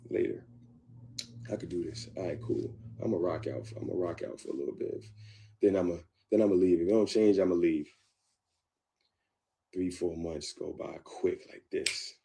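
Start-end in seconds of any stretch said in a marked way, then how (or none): 1.5-7.9 false pride. Retold or imitated. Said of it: "I labeled it as false pride".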